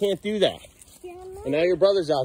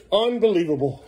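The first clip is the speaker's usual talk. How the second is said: louder, higher, fed-up repeat; exasperated outburst; 5 semitones higher, 5 dB louder than usual. Real, not acted. Parent fed up with Beckham running off, exasperated. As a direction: let the frustration out.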